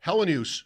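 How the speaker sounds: Hellenius mit drei Silben und einem leisen Y, ohne Betonung auf einer Silbe gesprochen; correct pronunciation. Shown as a demonstration. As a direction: Hellenius said as the player says it, with no stressed syllable. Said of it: "saw a clip of the player saying his own name".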